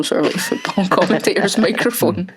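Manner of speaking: talking around a pen; pen held between the teeth; pen in mouth. Real, not acted. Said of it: "with my pen in my mouth".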